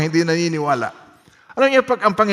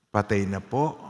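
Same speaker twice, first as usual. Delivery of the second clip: hushed hopeless words; 8 semitones lower, 5 dB quieter than usual. Shown as a demonstration. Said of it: "sabihin nyo nga yung word na yun".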